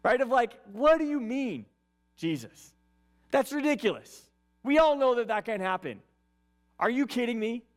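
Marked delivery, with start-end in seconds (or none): 0.7-2.7 sarcastic. Acted. Nicodemus scoffing at Jesus's claim, sarcastic. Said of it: "I read these with kind of a sense of sarcasm". 3.3-7.6 sarcastic. Acted. Nicodemus mocking rebirth talk, arrogant and sarcastic. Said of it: "I read these with kind of a sense of sarcasm".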